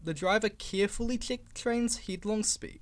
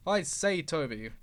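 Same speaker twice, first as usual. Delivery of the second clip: burst out. Acted. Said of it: "he burst out".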